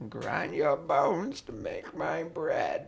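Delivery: slow, spooky giant chant with a laugh; giant rhyme. Pretend. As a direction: intone it slowly like a fairy-tale giant.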